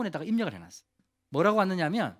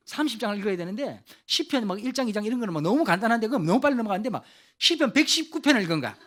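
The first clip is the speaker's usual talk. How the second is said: excited build-up; 5 semitones higher, 7 dB louder than usual. Real, not acted. Preacher builds excitedly on Psalm 119.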